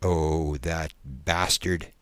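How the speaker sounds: low, slowing exhale of relief; sighing relief. Acted. Subject sags back in his chair, relieved. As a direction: let it sink out slowly, relieved. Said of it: "with a great sigh of relief".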